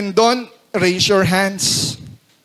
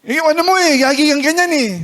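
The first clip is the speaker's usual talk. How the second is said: higher-pitched irritated mock scolding; with an attitude tone; 7 semitones higher, faster than usual. Shown as a demonstration. Spouse starting in on partner, instantly snippy tone. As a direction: come in with an edge right away, pitched up. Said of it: "May tono ka kaagad".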